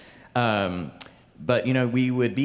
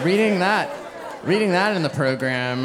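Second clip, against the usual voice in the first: higher, louder, amused; laughing; 7 semitones higher, 3 dB louder than usual. Real, not acted. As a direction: talk through laughter. Still laughing at typo.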